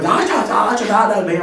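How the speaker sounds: the bassist yelling in German on stage, lightly imitated; mock German yelling. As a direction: imitate a German rant without real words. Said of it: "he was yelling something in German".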